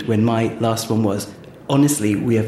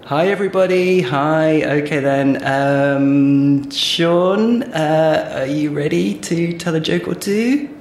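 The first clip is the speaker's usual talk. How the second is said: loud, raised stage voice to a live audience; addressing a crowd; 4 semitones higher, 6 dB louder, slower than usual. Pretend. Comic greeting the audience on stage, loud and projected. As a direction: project it out to the whole room.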